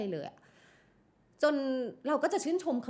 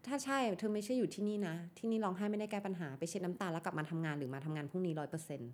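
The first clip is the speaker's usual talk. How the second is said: much softer, icy reprimand, slowing right down at the end; cold stern scolding; 3 semitones lower, 5 dB quieter than usual. Retold or imitated. Boss tells a crying employee tears fix nothing, icy and quiet. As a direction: lay it down quietly and coldly, no room to argue. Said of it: "เป็นเสียงอย่างนี้".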